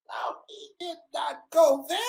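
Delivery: unvoiced scandalized whisper. Real, not acted. Speaker reacts to own joke, shocked whisper. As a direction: hiss it in mock disbelief.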